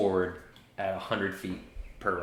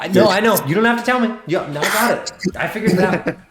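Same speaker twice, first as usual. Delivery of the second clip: exasperated; 11 semitones higher, 8 dB louder, faster than usual. Real, not acted. GM exasperated, laughing reply.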